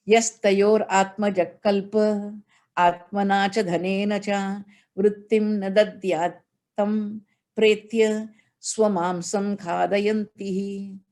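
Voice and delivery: steady, measured Sanskrit verse chant; scripture recitation. Acted.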